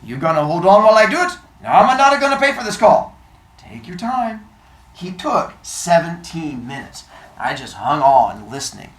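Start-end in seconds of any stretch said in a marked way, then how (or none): 0.0-4.5 put-on high, loud New York immigrant shopkeeper accent; thick old-world accent. Old bookseller on the phone to a caller, thick New York accent. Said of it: "His accent was thick".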